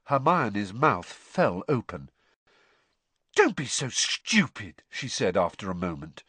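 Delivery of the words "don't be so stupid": scornful retort. Acted. Hermione retorts to Ron.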